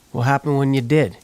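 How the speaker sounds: usual speaking voice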